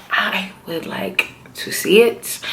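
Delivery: drawn-out, deliberate repeat of I would like to see it; slow and emphatic. Real, not acted. Viewer telling the show what she wants, slow and emphatic. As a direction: spell out the wish slowly, word by word.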